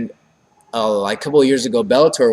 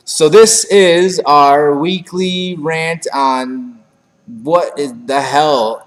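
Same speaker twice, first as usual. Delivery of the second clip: announcer hype; 4 semitones higher, 6 dB louder, much slower than usual. Acted. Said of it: "announcing the segment".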